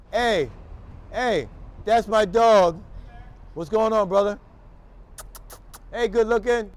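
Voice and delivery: light up and call out to your favourite dog; dog greeting. Real, not acted. Man on the street greets a dog he loves, gushing and loud.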